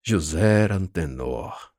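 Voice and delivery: slow, sarcastic questioning tone. Acted. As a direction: ask it with a sneer. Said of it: "em tom sarcástico de pergunta".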